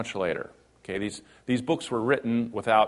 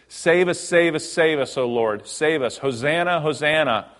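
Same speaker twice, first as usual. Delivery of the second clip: higher, louder excited cries; eager crowd; 4 semitones higher, 4 dB louder than usual. Acted. Preacher voicing the palm-waving crowd, eager and raised. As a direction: call it out like a hopeful crowd.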